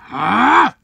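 short rising mock roar, high and loud; monster roar. Godzilla announcing the attack, roaring. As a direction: let out a loud play roar. Monster roars in toy battle.

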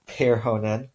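"perhonen" stressed on the first syllable, PER-honen; Finnish stress. Shown as a demonstration. Teacher showing Finnish first-syllable stress on "perhonen". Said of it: "each of those first syllables is stressed".

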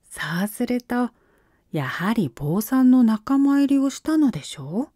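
put-on young boy voice. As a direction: play a clever boy monk. Ikkyu voiced in read story.

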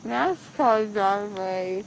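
talking through a mouthful of gauze; mumbled, mouth stuffed after surgery; mouth full of gauze. Real, not acted. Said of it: "No, in your mouth".

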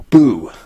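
spooky boo to scare; startling boo. Pretend. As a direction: jump out with a boo. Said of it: "Did I scare you?".

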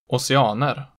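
put-on oceaner, slow, in Old Stockholm dialect with accent two. Shown as a demonstration. Teacher showing century-old local speech, Old Stockholm accent two on oceaner. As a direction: give oceaner the Old Stockholm double-peak tone. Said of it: "generalized accent two onto everything else".

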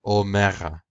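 "Omega" with both syllables stressed; omega with two accents. Shown as a demonstration. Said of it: "it's hard to accent omega with its two accents".

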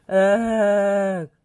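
loud, held "ugh"; growled groan. A narrator's reading. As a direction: let out one long growling groan. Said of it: "growled Rolly".

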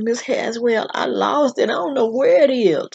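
retold schoolchild's worried plea; anxious confession. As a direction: confess nervously to a strict teacher. Child confessing to feared teacher.

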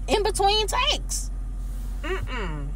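high, slow and winded; out of breath. Retold or imitated. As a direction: gasp it out between breaths. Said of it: "I was out of breath".

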